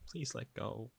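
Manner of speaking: small, upset voice; tearful plea. A narrator's reading. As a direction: plead weakly to be released.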